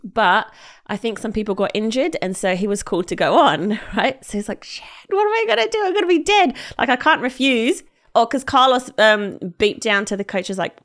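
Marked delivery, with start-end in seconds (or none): 4.6-7.8 mock panic. Player forced onto the pitch.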